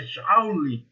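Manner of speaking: JOULE as "JAU-lee", with an open A; others' pronunciation. Shown as a demonstration. Teacher quoting how some people say it, joule with an A. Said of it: "Tem gente que fala até".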